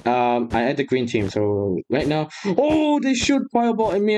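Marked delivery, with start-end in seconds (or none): 2.4-4.2 startled high yelp. Real, not acted. Dodging a fireball.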